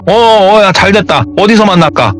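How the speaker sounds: eager agreement. Retold or imitated. Brother eagerly accepts the meeting.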